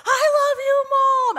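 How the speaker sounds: put-on high, loud child's holler; imitating a full-volume declaration; kid's yell. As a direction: shout it proudly across the schoolyard. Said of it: "So here we were with".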